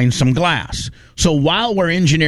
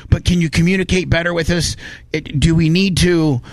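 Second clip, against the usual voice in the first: sincere appeal; 5 semitones higher than usual. Real, not acted. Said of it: "I wanna make sure that I say this with all due respect".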